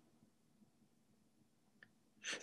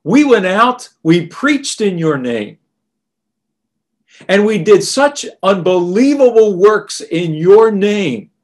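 excited; 3 semitones higher, 4 dB louder than usual. Retold or imitated. Disciples returning with joy.

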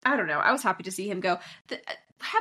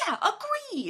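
limp agreement; 11 semitones higher, slower than usual. Retold or imitated. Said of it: "but he'll be like".

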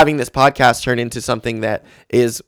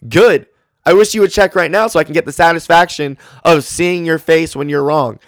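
taunting; 4 semitones higher than usual. Retold or imitated. Retelling argument, taunting a stranger.

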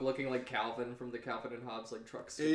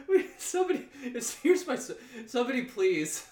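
laughing; 2 semitones higher, 5 dB louder than usual. Real, not acted. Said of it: "so that I can please stop that".

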